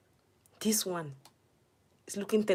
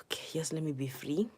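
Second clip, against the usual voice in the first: whisper; 2 semitones lower, 6 dB quieter than usual. Real, not acted. Whispered plea.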